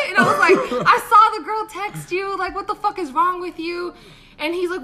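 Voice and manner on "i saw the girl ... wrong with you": high, loud accusing rant with laughter in it; going off on him. Retold or imitated. Confronting her date about the girl's text, loud laughing rant. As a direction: tear into him, half laughing. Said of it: "I went off on him".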